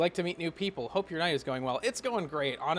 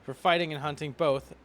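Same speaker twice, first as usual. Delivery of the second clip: put-on lightly lowered wise old warrior; measured, lower advisor tone; low mentor voice; 7 semitones lower than usual.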